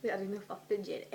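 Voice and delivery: fast, loud telling-off; loud scolding mum. Pretend. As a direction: rattle off a mum's rant. Continuing mock Mrs Weasley rant.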